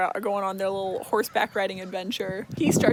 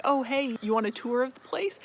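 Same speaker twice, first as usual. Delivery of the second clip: higher-pitched, casual invitation; lightly acted, raised-voice offer; retold friendly offer; 4 semitones higher than usual. Tamlin offers her a tour, lightly acted friendly offer.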